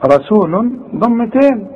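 رسولٌ with a full double damma, slow; tanween. Shown as a demonstration. Teacher showing the tanween on رسول. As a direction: sound رسول with both dammas. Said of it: "شل الضمة الأولى".

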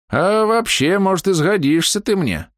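put-on high, toothless old man mumble; old man mumbling. A narrator's reading. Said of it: "прошамкал старик".

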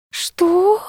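резкий высокий вскрик удивления; ахнуть от неожиданности; изумлённое что. A narrator's reading. Люба потрясена вопросом. (изумлённо, на высокой ноте)

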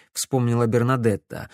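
ordinary delivery, nothing marked

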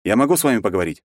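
quick, eerie monster voice; a cold, inhuman creature asking politely. A narrator's reading. Monster addresses terrified general.

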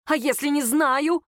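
heated, exasperated retort; growled retort. A narrator's reading. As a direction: snap back in frustration, drawing it out. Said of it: "прорычала Лера".

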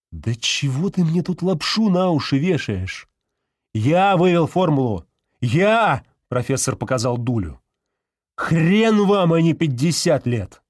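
намного выше и громче, возмущённо; кричит, показывая дулю; гневный крик. A narrator's reading. Профессор кричит, отстаивая формулу. (профессор яростно кричит на Кошкина, отстаивая формулу)

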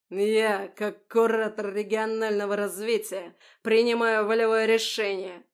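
loud pompous yell. A narrator's reading. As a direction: bellow the decree. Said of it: "заорал он". (громкий напыщенный ор)

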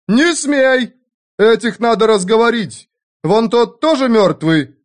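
high squeaky cry; squeaking. A narrator's reading. Innkeeper squeaking at the German to stop killing, high and shrill. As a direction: squeal it out in panic. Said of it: "запищал Петроний".

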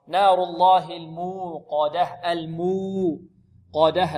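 very drawn-out "الموقدة" with a heavy qaf; slow recitation. Shown as a demonstration. Teacher modelling the verse, slow careful recitation. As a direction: recite "نار الله الموقدة" stretched out syllable by syllable. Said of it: "القاف ماذا".

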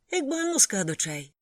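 high, loud joyful yell. A narrator's reading. Cook Vishal yells the order out joyfully, loud and high. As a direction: belt the order out happily. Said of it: "радісно репетував він".

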